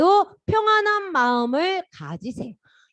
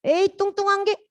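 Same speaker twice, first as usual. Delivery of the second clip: higher-pitched mock taunt; acted playground put-down; grumpy name-calling; 5 semitones higher than usual. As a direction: toss out a childish insult. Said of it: "내가 기분 나쁘다고".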